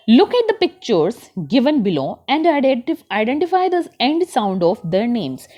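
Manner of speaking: put-on very slow, deliberate reading aloud for children; slow textbook reading. Teacher reads the passage to her class, very slow. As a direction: read each word out slowly for young learners. Reads exercise instruction slowly.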